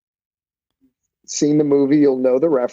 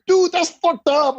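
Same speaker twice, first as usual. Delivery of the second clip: incredulous student; 13 semitones higher, slower than usual. Retold or imitated. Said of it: "he was like".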